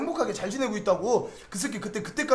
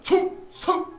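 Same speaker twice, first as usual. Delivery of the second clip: salute shout; 7 semitones higher, much slower than usual. Retold or imitated. Soldier salutes the officer.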